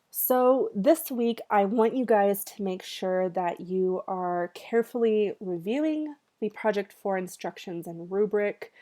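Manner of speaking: stuffy nasal voice from cat allergies. Real, not acted. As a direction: talk through a stuffed-up, nasal nose. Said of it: "nasally voice".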